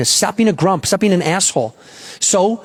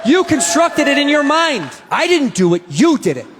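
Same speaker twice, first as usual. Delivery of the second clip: gleeful taunting; 6 semitones higher than usual. Real, not acted. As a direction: rub it in, grinning. Comedian taunting audience after reveal.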